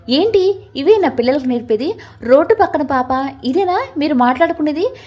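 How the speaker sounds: understated angry scolding; a touch of anger as he rebukes her; mild anger. Acted. Phanindra scolding his sister for loose talk, mildly angry. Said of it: "కోపంగా అన్నాడు ఫణీంద్ర".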